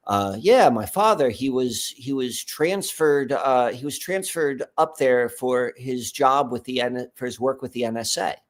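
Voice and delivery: a light hint of his father's voice, slow; lightly voiced older dad, unhurried; dad's voice. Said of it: "I'm back in my dad's voice now".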